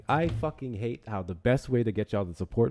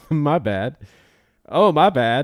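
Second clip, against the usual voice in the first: laughing apology; 4 semitones higher, 11 dB louder, slower than usual. Real, not acted.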